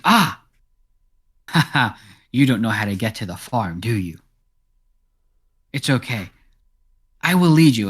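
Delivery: lightly voiced cat character guiding travelers; friendly cat. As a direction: play a helpful, slightly theatrical cat. Game master plays talking cat.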